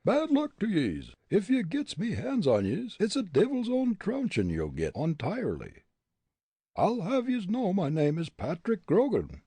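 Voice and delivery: high blustering Irish brogue; riled-up brogue, pitched high; indignant Irishman. A narrator's reading. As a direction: bluster and boast as an offended Irishman. Angered Irishman threatens and boasts.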